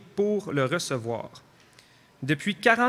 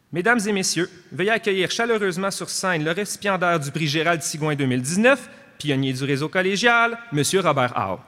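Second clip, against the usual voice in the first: louder ceremonial announcer voice; grand entrance announcement; 4 dB louder than usual. Real, not acted. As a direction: build up and call the winner onstage. Presenter calls winner onto stage.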